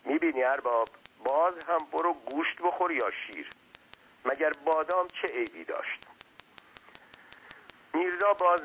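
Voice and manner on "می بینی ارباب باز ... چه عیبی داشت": slightly higher servant's voice; hint of a talkative underling, pitched up; lightly voiced servant. Servant chatting to his master, lightly voiced.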